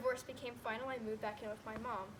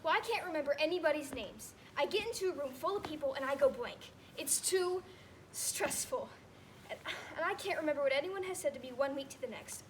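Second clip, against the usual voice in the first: retold upset mom; 2 semitones higher, 4 dB louder than usual. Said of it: "And she got really upset".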